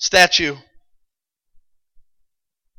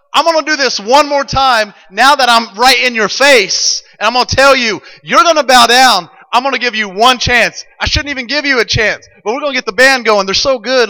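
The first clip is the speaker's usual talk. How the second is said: king in their face; 5 semitones higher than usual. Acted.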